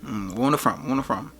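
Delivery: soft, laid-back Jamaican patois; Jamaican accent. Pretend. Chatting with a girl who liked his voice, in a Jamaican accent. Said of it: "You have a nice accent".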